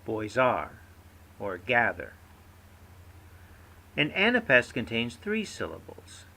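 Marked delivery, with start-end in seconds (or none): 0.0-0.8 put-on "Boys are" with stressed "Boys", slack "are"; stress on first word. Shown as a demonstration. Teacher demonstrating a trochee, stress on "Boys" in "Boys are". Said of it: "one stressed syllable followed by a slack". 1.6-2.1 "gather" with stressed "ga", slack "ther"; stress on first syllable. Shown as a demonstration. Teacher giving a trochee example, "gather" stressed on its first syllable. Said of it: "one stressed syllable followed by a slack".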